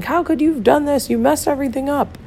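imitating someone yelling. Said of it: "yelling at you and being like".

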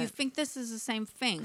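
softly imitated British accent, th as f; lightly mimicked British movie line; British film accent. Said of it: "Like that accent".

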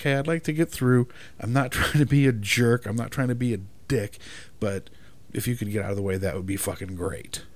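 casual, reasonable tone; even-toned request. Shown as a demonstration. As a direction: ask nicely, not a jerk. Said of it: "that nice even line".

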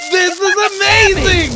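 high, elated exclaiming; ecstatic amazement. Acted. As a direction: revel wildly in your new powers. Thrilled by new powers.

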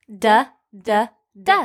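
d d d as short d sounds; phonics d sound. Shown as a demonstration. Teacher saying d along with children, short d. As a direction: repeat the d sound with the kids. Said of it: "Say it with me".

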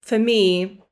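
loud, halting tearful words; real tears, pushing on between pauses; trying to talk through crying; choked up. Real, not acted. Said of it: "that really got to me".

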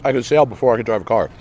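talking while chewing; words round a bite of food; mouth full. Real, not acted. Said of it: "I'm chewing".

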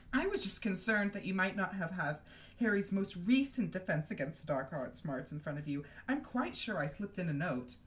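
lightly voiced simpering official; mildly affected, sweetly meddling; Umbridge read aloud.

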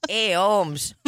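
put-on borderline Hispanic accent; teasing with a rough mock Hispanic accent. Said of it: "a borderline Hispanic accent".

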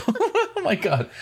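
laughing it out, high and slow; real laugh spilling over the words. Real, not acted. Reacting to friend's story, laughing high and slow.

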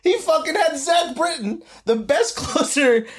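high-pitched, incredulous sports rant; heated protest. Real, not acted. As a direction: argue it hard, voice shooting way up. Heated argument over a manager.

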